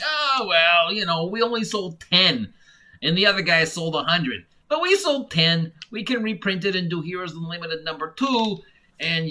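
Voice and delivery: hammed-up shrug of a publisher who doesn't care; mock smug publisher. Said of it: "I don't know why I'm talking like this".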